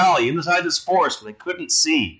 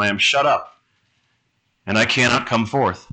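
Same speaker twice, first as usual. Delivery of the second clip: solemn scripture reading; 4 semitones lower than usual. Acted. Preacher reading the psalm to his congregation, solemn. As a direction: lay each line down with weight.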